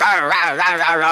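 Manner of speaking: imitated wordless yapping tirade; wordless mock scolding; mock angry ranting noise. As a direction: rattle off "rah rah" like someone ranting.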